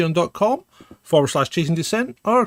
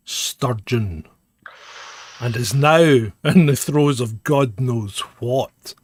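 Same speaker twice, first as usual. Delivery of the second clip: show announcer. Acted. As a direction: announce the episode like a pompous presenter. Hosts introduce the show.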